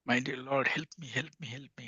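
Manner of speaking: softly imitated begging, fading away; understated, hushed plea; pleading cry. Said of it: "one should cry like that".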